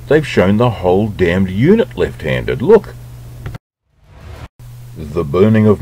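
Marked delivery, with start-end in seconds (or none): 2.6-2.9 excited. Real, not acted. Pointing at screen in surprise.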